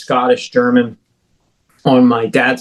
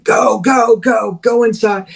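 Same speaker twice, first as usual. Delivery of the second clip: very high, shrieked order to run; frantic scream; 9 semitones higher, slower than usual. Retold or imitated. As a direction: scream them into the house. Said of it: "he just starts screaming".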